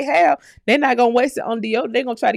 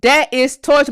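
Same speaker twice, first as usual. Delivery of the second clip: amused exclamation; 3 semitones higher, 7 dB louder, much slower than usual. Real, not acted. Amused sympathy.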